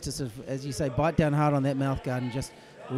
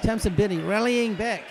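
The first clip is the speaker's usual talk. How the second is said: excited; 4 semitones higher, 5 dB louder than usual. Real, not acted. Calling a late rally.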